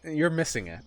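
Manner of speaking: high, loud, drawn-out teasing protest; playful disbelief. Real, not acted. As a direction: stretch it out in mock outrage. Teasing disbelief at player's ignorance.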